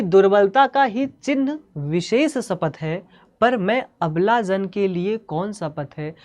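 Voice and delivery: slow, measured verse reading; declaimed Hindi poem at a slow pace; poetry recitation. Acted. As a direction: recite the verse deliberately, drawing out each phrase.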